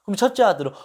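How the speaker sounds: usual speaking voice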